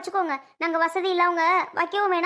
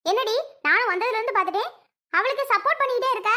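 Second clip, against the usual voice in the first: higher, sharp accusation; accusing; 4 semitones higher than usual. Acted. Aunt accusing Sasi of backing Amudha, sharp and high. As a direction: call her out for taking sides.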